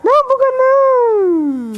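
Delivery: high, alarmed protest; panicked cry. Real, not acted. Gamer shouting at a game bug, high and alarmed. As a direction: cry out at the glitch.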